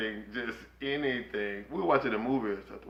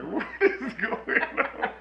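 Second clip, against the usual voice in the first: exasperated; 9 semitones higher, slower than usual. Retold or imitated. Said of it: "I'm like".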